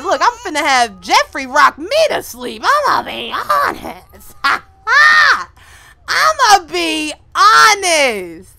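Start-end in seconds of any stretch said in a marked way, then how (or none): 2.6-8.5 mock wail. Mock crying outburst.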